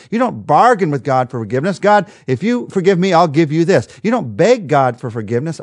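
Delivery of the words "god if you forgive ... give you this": mock bargaining sinner.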